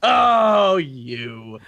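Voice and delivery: big swooping mock-chiding delivery; mock scolding. Mock reaction to over-the-top moments.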